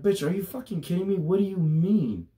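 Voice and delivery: high, shouted disbelief; outraged yell. Retold or imitated. Retold outburst at the clerk, shouted high. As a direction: scream it in outrage. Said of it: "and I'm like".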